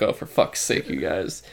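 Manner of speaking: soft, whispered groan; muttered annoyance at the fans; exasperated whisper. Retold or imitated. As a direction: sigh it under your breath. Exasperated aside.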